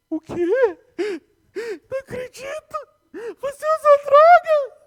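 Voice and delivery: high, loud shocked gasp of a mother; mãe chocada com a confissão do filho, grita surpresa. Retold or imitated. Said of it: "minha mãe". (mãe em choque, voz bem aguda e forte)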